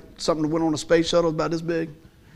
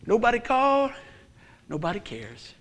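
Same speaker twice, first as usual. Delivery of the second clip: self-pity; 4 dB quieter than usual. Retold or imitated. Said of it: "And I would say out loud".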